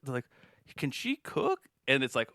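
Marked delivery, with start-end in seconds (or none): 0.8-1.6 put-on high, slow old lady chatter. Mocking the old ladies in the Ragu ad, high and slow. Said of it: "a bunch of old ladies".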